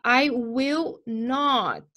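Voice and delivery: drawn out, word by word; slow spelled-out negative; very slow demo. Shown as a demonstration. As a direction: stretch each word so the class hears it. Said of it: "teacher demo of the negative".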